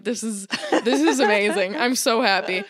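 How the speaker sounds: speaking through laughter; laughing with joy. Retold or imitated. Telling the handymen her joy, laughing. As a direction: giggle through the words. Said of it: "I was like".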